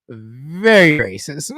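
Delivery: slow, drawn-out "very racist", leaning hard on "very"; emphatic very racist. Real, not acted. Host stressing that the actor is very racist, slow and emphatic. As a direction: stretch out "very racist" to drive it home. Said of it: "Very racist with the capital V".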